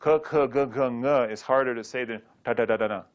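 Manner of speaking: quick rattled k, k, g, g, ng; said fast. Shown as a demonstration. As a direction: fire the syllables off quickly. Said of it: "see how fast you can say these".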